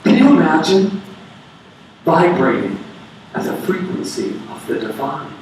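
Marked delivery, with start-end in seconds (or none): 2.1-5.3 low near-whisper, almost breathless; hushed. Acted. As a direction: breathe the words as if in awe. Savouring the divine in a hush.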